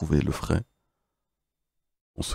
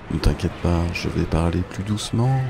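raspy voice; 3 semitones lower than usual. Real, not acted. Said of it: "Je vais prendre une voie rauque".

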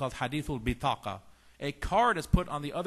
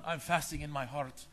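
laughing excuse. Retold or imitated. Retold eater's excuse, speaker laughing.

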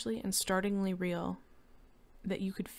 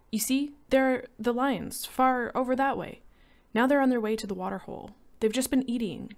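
higher, louder wife's voice pointing out the lions; wife Lydia, uneasy; 6 semitones higher, 6 dB louder than usual. A narrator's reading. Wife showing her husband the lions, in a higher, uneasy voice. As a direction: Lydia uneasily points far off, fast at the end. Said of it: "said Lydia".

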